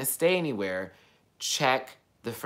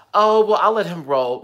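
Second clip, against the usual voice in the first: high, loud mocking quote; mock lenient officer; 7 semitones higher, 11 dB louder than usual. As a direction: exaggerate an officer's imagined leniency, pitched up. Mocks an imagined lenient officer.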